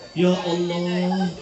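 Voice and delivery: slow cry to God building to loud, high praise; retold tearful awe. Moved enemy marvels at the Prophet's pure heart, tearful awe. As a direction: swell from a drawn-out sigh into fervent acclaim. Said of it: "ini orang nangis".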